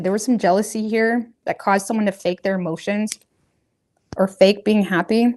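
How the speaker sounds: talking around food in mouth; mouth full. Real, not acted. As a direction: say it round a bite of food. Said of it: "Sorry, I got something in my mouth".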